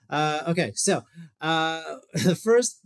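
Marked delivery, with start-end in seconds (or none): 2.1-2.9 laughing. Real, not acted. Laughs restarting his intro.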